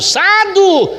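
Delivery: "Sábado" as a high, drawn-out "sádo"; excited mispronunciation. The speaker insists on the day, "Sábado" as excited high "sádo".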